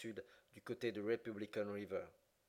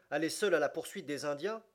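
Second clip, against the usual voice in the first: shocked protest; 4 semitones higher, 6 dB louder than usual. A narrator's reading. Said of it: "s'écria Fix".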